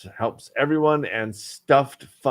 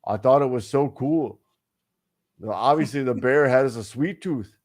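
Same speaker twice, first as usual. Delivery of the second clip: put-on Western Canadian accent. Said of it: "back to regular voice".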